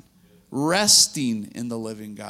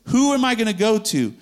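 desperate plea; 8 semitones higher, 9 dB louder than usual. Acted. Peter pleading with Jesus.

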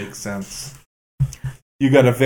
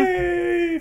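high squeaky cheer; excited cheer; 5 dB quieter than usual. Real, not acted. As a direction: squeal it with joy. Cheering at good news.

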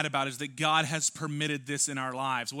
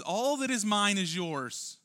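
tender father promise; 6 semitones higher, 4 dB louder, slower than usual. Acted. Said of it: "He says".

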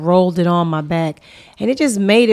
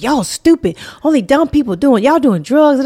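mocking friend; 6 semitones higher, 3 dB louder than usual. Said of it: "he like".

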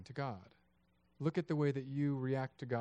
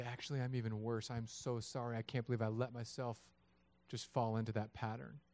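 humble apology; 4 dB quieter than usual. Acted. Models humble apology after mock quarrel.

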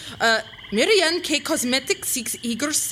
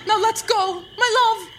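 loud romantic call; 6 semitones higher, 4 dB louder than usual. Acted. Grand romantic declaration.

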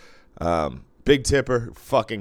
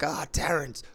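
much higher, fast, overly friendly greeting; imitating Scott; 9 semitones higher, 3 dB louder than usual. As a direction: play the oblivious buddy, gushing.

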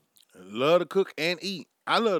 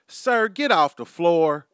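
slow, louder mock scolding of a laughing fan; mock scolding shout; 3 semitones higher, 6 dB louder, slower than usual. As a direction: tell the laughing man off, hammed-up and slow. Scolds laughing audience member.

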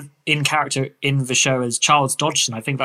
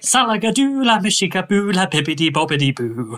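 airy, whimsical Victorian author; dreamy storybook eccentric, slightly lifted; Lewis Carroll; 6 semitones higher than usual. Acted. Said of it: "that, uh, performance".

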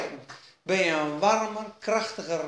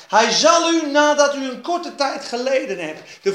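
emphatic promise; 3 semitones higher, 5 dB louder than usual. Acted. Preacher building to promise.

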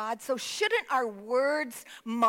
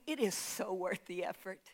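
much softer and lower, almost confiding; soft, intimate assurance; 5 semitones lower, 10 dB quieter than usual. Real, not acted. Preacher to congregation, promising effort pays off, hushed. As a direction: lean in and say it gently to the congregation. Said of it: "Can I tell you".

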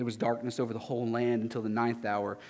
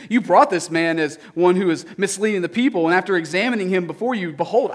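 Pilate, declaring; 8 semitones higher, 7 dB louder than usual. Acted. Pilate addresses the crowd.

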